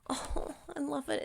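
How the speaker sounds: breathy whispered adoration; whispered delight. Real, not acted. Host whispering her love for a child's card. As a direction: whisper it like a secret treasure.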